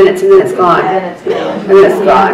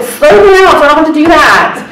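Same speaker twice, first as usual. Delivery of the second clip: retold plea; 5 semitones higher than usual. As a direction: plead lightly, pitched up, replaying the moment. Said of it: "I said".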